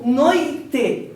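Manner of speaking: "noite" split slowly into two syllables. Shown as a demonstration. Teacher gives the class an example, syllable by syllable. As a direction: break "noite" after the i: noi, te. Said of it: "É só pronunciar".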